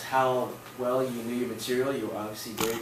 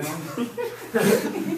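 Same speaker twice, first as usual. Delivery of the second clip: laughing; 13 semitones higher, 5 dB louder than usual. Real, not acted. Classmate mangles his name.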